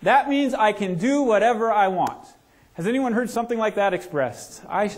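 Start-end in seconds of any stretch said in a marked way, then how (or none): 0.0-2.3 put-on cocky kid. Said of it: "basketball guy says".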